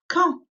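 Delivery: "Quand" said kahn, nasal vowel, the d silent. Shown as a demonstration. Teacher stresses the silent d of "Quand" to pupils. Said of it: "The D silent".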